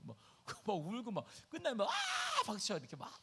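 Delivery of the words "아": imitated crowd cheer, very high; high cheering cry. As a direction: shout an excited crowd "ah".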